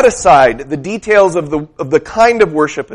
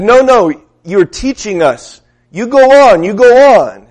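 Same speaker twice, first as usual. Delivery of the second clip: louder, higher, urging him on; eager encouragement; 4 semitones higher, 4 dB louder than usual. Retold or imitated. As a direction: push the preacher to keep going. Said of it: "he said".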